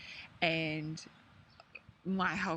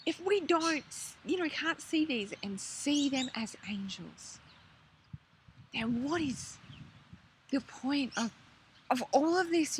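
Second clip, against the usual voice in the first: gentle reply; 7 semitones higher than usual. Retold or imitated. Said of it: "And he said to me".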